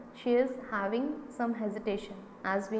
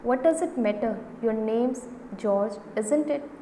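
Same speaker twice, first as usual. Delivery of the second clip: impatient. Acted.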